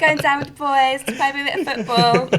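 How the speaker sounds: laughing Essex lad voice; giggly Essex bloke impression; David Beckham impression. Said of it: "Good impression".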